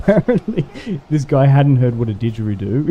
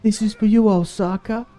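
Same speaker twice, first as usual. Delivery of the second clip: higher, slow proud hometown boast; proud Osaka busker; 8 semitones higher than usual. Retold or imitated. Busker boasting to tourists about Osaka, higher and slow. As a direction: puff up with pride for your city. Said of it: "this guy's like".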